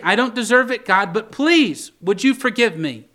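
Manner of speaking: imploring prayer, pitched high; calling out for mercy. Acted. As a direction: beg forgiveness, stretching out the please. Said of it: "he's calling out for God's mercy".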